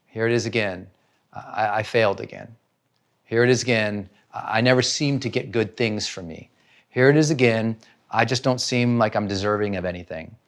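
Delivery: low, soft, dejected inner voice; defeated self-talk. Acted. Someone taking it personally, quietly defeated. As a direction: resign yourself quietly, pitch dropped.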